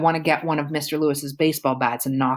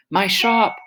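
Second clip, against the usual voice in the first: high, louder cry of loss; distraught shopkeeper crying out; anguished cry; 5 semitones higher, 4 dB louder than usual. A narrator's reading. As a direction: cry out as the shop burns. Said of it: "Mister Lewis cries".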